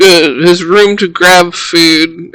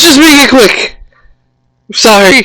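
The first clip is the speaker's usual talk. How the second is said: high, rushed, startled, wincing and flinching voice; 7 semitones higher than usual. Startled, he spins around and winces at the group: startled, wincing plea. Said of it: "winces and goes".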